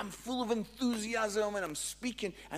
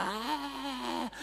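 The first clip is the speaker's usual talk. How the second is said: awkward "ah"; 7 semitones higher than usual. Retold or imitated. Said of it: "that kind of".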